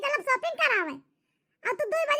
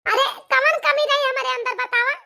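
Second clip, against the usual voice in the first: hurt angry demand; 6 dB louder than usual. Acted. Wife confronts husband's betrayal.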